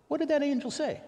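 high, loud, disbelieving really; incredulous. Retold or imitated. Cynical preacher to man claiming death, incredulous high. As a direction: squeal out the doubt. Skeptical questioning of testimony.

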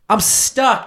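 high-pitched parody stepmom; mock damsel in distress. Stepmom calls to stepson in a porn parody, mock helpless. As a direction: play a hammed-up helpless stepmom.

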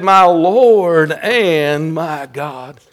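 very slow, drawn-out exclamation; astonishment. Acted. Preacher voicing Thomas after the touch, astonishment. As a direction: stretch the words out in awe. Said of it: "as we hear the astonishment in his voice".

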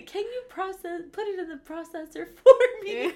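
hammed-up elderly request; old lady asking. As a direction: ask like a toothless grandma. Imitating toothless elderly friend.

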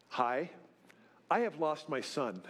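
understated calm with a half laugh; mock calm. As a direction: announce it far too calmly. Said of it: "I just calmly say".

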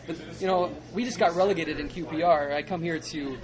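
bad New Zealand accent. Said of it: "my New Zealand accent sucks".

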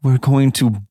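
drawn out, ominous; slow menacing threat. Acted. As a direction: say it slowly like a threat. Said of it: "And he's like".

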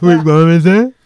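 a loud mock-confused shout. Real, not acted.

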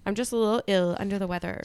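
raspy sick voice; hoarse from a cold. Real, not acted. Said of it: "I'm still sick".

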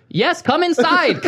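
high, drawn-out mock Indian accent; laughing imitation of an insistent Indian-accented speaker; Ray. Ray still urging the caller in, high imitated Indian-sounding accent. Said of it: "Why does he sound Indian?".

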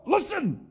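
high, drawn-out "Listen"; emphatic listen. Retold or imitated. James grabbing his readers' attention, high emphatic call. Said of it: "he's like".

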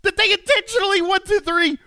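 hammed-up disbelief; over-the-top mock indignation; mock outrage. Mock outrage, playing along.

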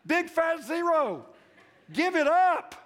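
rising to a loud, high-pitched preaching shout, slowing at the end; preaching climax. Real, not acted. Preacher rousing the congregation to full shouting fervor. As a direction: build to full-force fervor and hammer it home.

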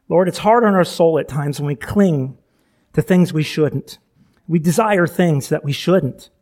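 earnest congregational prayer, unhurried; heartfelt pastoral prayer, pausing between phrases. Acted. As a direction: pray aloud to the Lord for the church. Pastor leads opening prayer.

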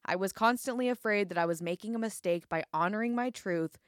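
measured reading aloud; narrating from a memoir; book excerpt reading. Acted. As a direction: read the passage out to listeners, phrase by phrase.

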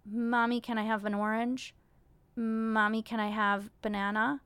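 lightly voiced toddler asking mommy; imitating her son. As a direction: mimic her little boy asking politely for food. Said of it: "the structure of saying it is like".

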